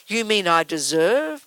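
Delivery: slow, wondering "You mean I deserve?" rising at the end; drawn out in mild disbelief; slow puzzled question. Retold or imitated. Listener slowly realising the good is deserved too, puzzled. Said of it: "imagined listener asking".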